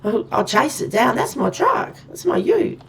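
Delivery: high, loud frantic self-talk; panicked retelling. Retold or imitated. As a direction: rush it like you're about to chase him. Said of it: "I was going".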